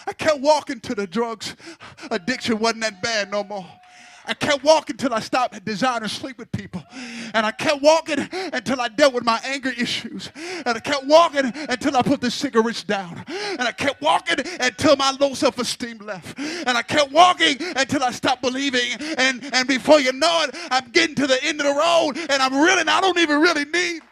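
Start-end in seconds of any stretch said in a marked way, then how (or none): 4.2-18.9 rising preacher cadence, building; preaching. Acted. 19.2-24.0 loud, higher preacher climax; preaching at full force. Acted.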